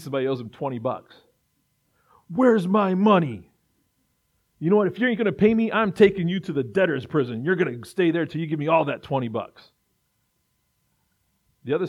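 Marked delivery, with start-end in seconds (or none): 2.3-9.7 hammed-up servant threatening a debtor; mock angry creditor. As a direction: shake him down like a petty thug. Servant demands twenty bucks back.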